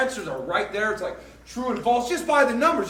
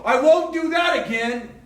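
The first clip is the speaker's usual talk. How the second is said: regretful vow; 4 semitones higher than usual. Retold or imitated. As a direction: swear it off with a shout. Sinner vows after crash.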